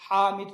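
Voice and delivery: "حامد" loudly with a strong throat h; mid-throat ha. Shown as a demonstration. Teacher shows the letter from mid-throat, strong h. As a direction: say "حامد" with a pharyngeal Arabic h. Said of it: "وسط حلق سے نکلتا".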